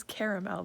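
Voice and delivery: CARAMEL as CARE-uh-mel; Canadian pronunciation. Shown as a demonstration. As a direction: keep all three syllables in CARAMEL. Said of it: "There's another A in there".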